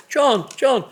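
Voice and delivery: imitating a Scottish team boss with a half-hearted Scottish accent. Team boss arm round driver's shoulder, mock Scottish accent. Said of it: "I can't do a Scottish accent".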